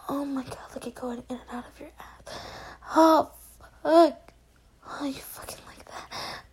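hushed breathy roleplay whisper; intimate whisper. Acted. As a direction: whisper close and intimate to a partner.

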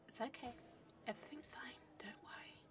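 soft hushed comfort; calm him under your breath; shaky whispered "fine"; whispered reassurance. Acted.

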